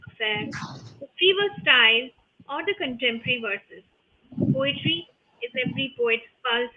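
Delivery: measured recital with deliberate pauses between phrases; poetic intro recitation. Acted. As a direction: recite it like an opening verse, letting each phrase stand.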